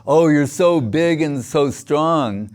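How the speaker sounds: slow, drawn-out mock admiration; teasing. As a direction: tease with exaggerated praise. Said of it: "It's like he's teasing".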